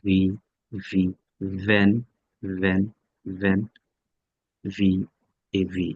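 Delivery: low demonstrated v in "ভ্যান"; teeth-on-lip V. Shown as a demonstration. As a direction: buzz the v at the start of "ভ্যান". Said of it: "উপরের দাঁত, নিচের ঠোঁট".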